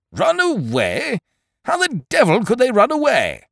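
high, loud indignant outburst; outraged. A narrator's reading. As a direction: explode in disbelief. Ukridge outraged.

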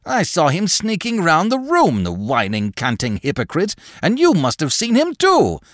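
put-on high, rambling, feverish old man's voice; agitated old man. A narrator's reading. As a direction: rave at her like a haunted old man. Craven's agitated ravings.

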